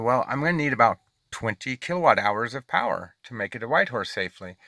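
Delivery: measured, placating retold reply; calmly explain, as if settling someone down; trying to be calm. Driver retelling his reply to the angry man, trying to be calm. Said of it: "I was trying to be calm".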